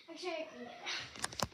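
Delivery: breathless from climbing; out of breath. Real, not acted. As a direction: talk while catching breath. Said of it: "Sorry, I'm out of breath".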